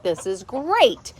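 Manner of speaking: slow, deadpan this is great; weary mock cheer; sarcastic. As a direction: drag out the great with dry sarcasm. Repeated after another letdown.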